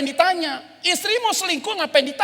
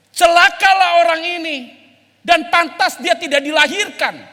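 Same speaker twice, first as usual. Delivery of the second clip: stern loud warning; 2 semitones higher, 4 dB louder than usual. Retold or imitated. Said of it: "Yesus ngomongnya keras loh".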